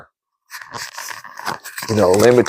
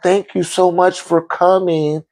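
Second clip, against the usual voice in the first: calm thanks; 4 semitones higher than usual. Retold or imitated. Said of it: "she was real calm".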